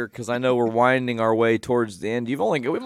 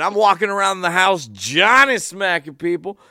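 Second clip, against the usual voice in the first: imitating Ollie; 7 semitones higher, 5 dB louder than usual. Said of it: "he said".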